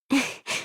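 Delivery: brief, breathy chuckle to oneself; soft chuckle. Acted. Scientist admitting to being very greedy, soft chuckle. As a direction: let out a small, quiet laugh. Character chuckles between own lines.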